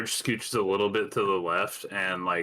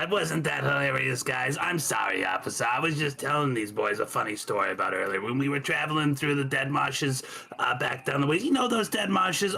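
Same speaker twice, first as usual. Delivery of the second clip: higher, chatty, folksy cover story; Marge; 6 semitones higher than usual. Acted. Traveler placates an officer with a funny story, chatty. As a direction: babble cheerfully to smooth things over.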